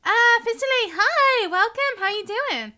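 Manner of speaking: excited greeting. Real, not acted. Streamer welcoming viewer Fitterly to the stream, loud and excited. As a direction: greet the newcomer with a big burst of cheer.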